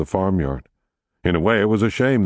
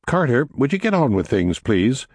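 higher-pitched, exasperated mother's request; a touch of impatience, pitched up; mildly irritated; 7 semitones higher than usual. A narrator's reading. Mother chivvying her dawdling son, mildly irritated. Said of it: "this irritated his mother".

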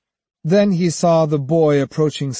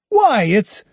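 high, louder startled gasp; startled exclamation; 8 semitones higher, 5 dB louder than usual. A narrator's reading. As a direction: cut off in shock. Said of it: "Startled, he exclaimed".

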